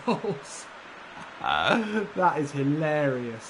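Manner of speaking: high, loud laughing disbelief; amused disbelief. Real, not acted. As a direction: marvel through laughter at his luck.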